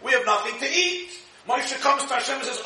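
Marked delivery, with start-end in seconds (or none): 0.0-1.1 mock screaming. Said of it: "the Jews are screaming".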